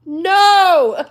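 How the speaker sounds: sudden high shriek of refusal; horrified no. Pretend. Imagining a masseur's offer, she shrieks a high no. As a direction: yelp it out high and loud. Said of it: "I would be like".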